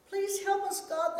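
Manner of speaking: mild dramatized cry to God; praying aloud. A narrator's reading. Disciples pray in the storm, pleading aloud. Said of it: "prayed aloud".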